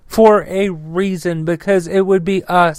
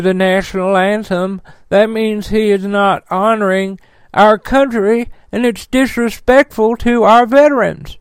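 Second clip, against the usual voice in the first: sneering mock quote. Vlogger mocking Republican senators' complaint, sneering parody voice. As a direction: mimic them with contempt.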